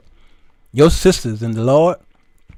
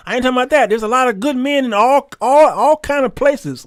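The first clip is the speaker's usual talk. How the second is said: rising preaching emphasis; 9 semitones higher than usual. Real, not acted. Preacher drives point home.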